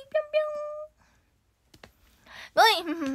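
cute high bunny voice. Acted.

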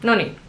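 short noni, both syllables even, falling; no emphasis. Shown as a demonstration. Learner repeating the thinking-filler noni, no emphasis. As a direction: drop noni without lifting either syllable. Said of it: "no emphasis at all".

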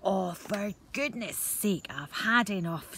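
slow, exasperated grumble; a cross little brownie fed up with noise; grumpy brownie. Acted. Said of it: "in a right bad mood".

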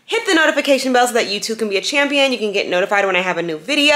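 quick run-through of channel plugs; hurried sign-up spiel; talking really fast. Real, not acted. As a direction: squeeze it all in, briskly. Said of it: "Am I talking really fast?".

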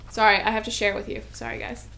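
ordinary delivery

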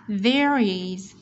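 THERE IS linked through the R. Shown as a demonstration. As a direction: run "there is" together as one word. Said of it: "chúng ta sẽ nối âm chữ R phụ âm với is".

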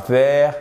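THERE said wrongly with a V for TH; th mal prononcé. Shown as a demonstration. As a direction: turn the TH of THERE into V, as in "vair". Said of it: "c'est pas there". (« there » prononcé « vère », avec un v)

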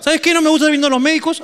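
voz aguda de abuela cansada; abuela imitada. Retold or imitated. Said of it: "abuela retold". (abuela decidida en voz aguda)

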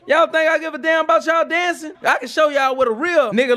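hammed-up shout at the kids; a big show of outrage, half joking; mock angry shout. Scolding kids about dancing.

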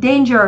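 "danger" with an "ay" vowel in the first syllable; long A vowel. Shown as a demonstration. Teacher showing students option C's vowel, "danger" with long A. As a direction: say "danger" starting like "day". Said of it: "Âm A".

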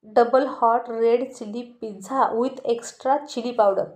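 very slow, spiteful one-upping order; doubly angry order. Acted. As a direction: outdo him word by word. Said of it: "double रागात म्हणाली".

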